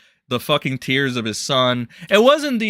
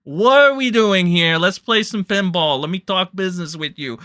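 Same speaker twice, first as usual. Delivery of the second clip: higher and louder, gushing mock Diorio; 5 semitones higher, 4 dB louder than usual. Diorio voiced pleading with J-Stock, gushing. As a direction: ham up a giddy schemer. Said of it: "That's my Diorio voice".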